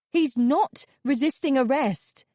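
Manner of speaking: high, loud shriek of protest; desperate shriek. A narrator's reading. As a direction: shriek it at the officers. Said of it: "I shrieked".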